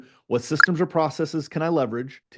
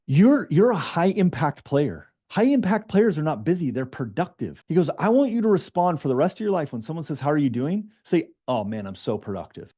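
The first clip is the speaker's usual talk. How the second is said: disappointed mentor; 4 semitones higher than usual. Retold or imitated. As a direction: lecture him like a let-down father figure. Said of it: "a dad that was disappointed".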